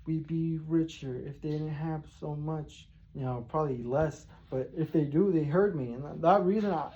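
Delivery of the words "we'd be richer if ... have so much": slow, soft half-rhymed grumbling; a slow, muttered rhyming curse under your breath; muttered rhyming rant. Retold or imitated. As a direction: mutter it slowly, half chanting. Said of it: "I'm fucking rhyming and shit".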